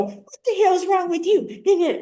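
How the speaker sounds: high, slow, exaggerated outraged demand; hammed-up telling-off; mock angry snap. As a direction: ham up the rude way to say it. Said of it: "but I didn't go".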